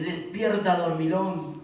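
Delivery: gruff wake-up call. Retold or imitated. Capitán despierta a Jonás.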